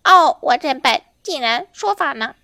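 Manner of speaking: loud, vexed parrot self-reproach; mildly exasperated bird voice; chagrined parrot. Acted. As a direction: scold yourself as a silly parrot. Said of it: "忽然懊丧地说".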